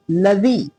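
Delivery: "लजी" with a quick, short "ल"; short first vowel. Shown as a demonstration. Teacher correcting the reading, quick "ल" in "लजी". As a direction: clip the "ल" short, then "जी". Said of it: "लाम को जल्दी पढ़ा जाएगा".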